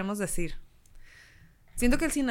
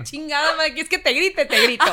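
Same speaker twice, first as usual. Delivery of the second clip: mock furious yell; 3 semitones higher, 6 dB louder than usual. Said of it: "Bien envergado".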